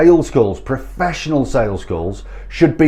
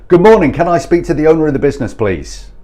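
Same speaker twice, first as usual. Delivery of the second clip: fast, higher mock script reading; mimicked telesales opener; 3 semitones higher, 3 dB louder, faster than usual. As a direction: rattle off a stock cold-call opener. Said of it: "This just rings automatically every bullshit sales alarm".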